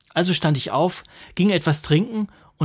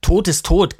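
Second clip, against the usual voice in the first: curt retort; 4 semitones higher, 8 dB louder, slower than usual. A narrator's reading. Husband retorts.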